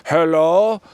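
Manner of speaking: slow, exaggerated put-on English accent; a French pupil overdoing an English accent; mock English accent. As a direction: drawl it in a caricature English accent. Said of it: "speak English with an English accent".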